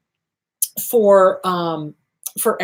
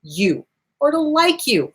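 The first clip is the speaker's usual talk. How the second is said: cheerful mirror talk. Shown as a demonstration. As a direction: greet yourself in the mirror like a friend. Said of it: "Do mirror work".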